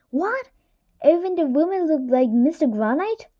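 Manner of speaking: high shocked question. A narrator's reading. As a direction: gasp out the question. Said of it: "shocked question from class".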